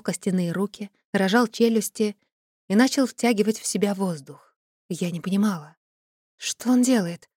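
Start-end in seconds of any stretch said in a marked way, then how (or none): none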